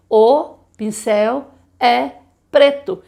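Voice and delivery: o pincel é preto very slowly, word by word; slow counted sentence. Shown as a demonstration. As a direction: count each word as you say it. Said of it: "quantas vezes que eu abri a minha boca". (o pincel é preto bem devagar, palavra por palavra)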